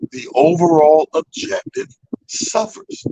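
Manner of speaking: slow, weighted "overall goal suffers"; a warning said slowly; slow emphasis. Shown as a demonstration. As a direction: land each word, stretching "overall". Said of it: "Let me say that again".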